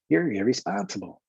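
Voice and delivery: lightly put-on high cartoon voice; helium cartoon voice. Shown as a demonstration. Coach imagines the teacher on helium, lightly cartoonish high voice. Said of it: "their voice is high, like, like a cartoon character".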